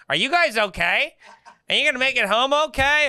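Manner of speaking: put-on high, fast worried old lady voice; old lady in a passing car checking on the stranded comics, in a high worried voice; concerned old lady. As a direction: fuss over them like a worried grandma. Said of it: "This old lady's like".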